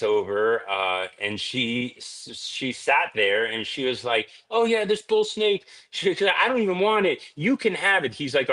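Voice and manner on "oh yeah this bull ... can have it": high, breezy mock wife voice; imitating wife. Husband imitates wife offering his snake to a friend, high and breezy. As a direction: toss it off like the careless wife.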